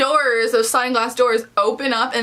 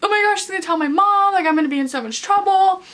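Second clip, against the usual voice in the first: mock crying; 8 semitones higher, faster than usual. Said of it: "Keely starts crying 'cause she's like".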